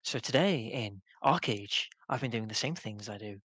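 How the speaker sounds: light imitation of a YouTuber intro; YouTube voice. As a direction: mimic a friend's chirpy video greeting. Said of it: "That's just your YouTube voice".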